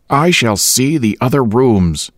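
announcing. A narrator's reading. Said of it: "he announced".

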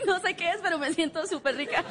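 respuesta halagada entre risas; riéndose. Retold or imitated. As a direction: contesta coqueta y riendo. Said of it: "y yo". (Liz responde riendo al piropo)

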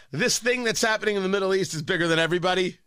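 rattled off fast, dismissive; "this thing that's happening" hurried through as a throwaway; rushed mock quote. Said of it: "when you say".

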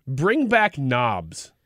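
slow, deliberate reading of a card. Shown as a demonstration. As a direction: read it out slowly, word by word. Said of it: "this just says".

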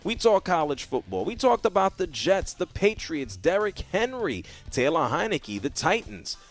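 upbeat show-tease read; radio announcer. Acted. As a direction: sell the rest of the show. Radio host tease over music.

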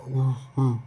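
soft, low "ooh, ooh"; low hollow ooh sounds; muddy vocal demo. Shown as a demonstration. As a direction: imitate muffled vocals with low oohs. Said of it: "This is what they sound like".

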